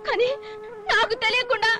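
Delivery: crying, pitch lifting; tearful. Acted. Wife telling her husband how she was wronged, crying. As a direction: let the tears break through.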